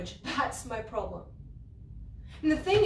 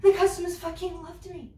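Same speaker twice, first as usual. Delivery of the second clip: angry; 4 semitones higher, 5 dB louder than usual. Acted. Angry rant at Andrew.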